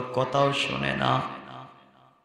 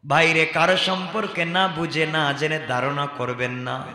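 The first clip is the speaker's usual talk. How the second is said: usual speaking voice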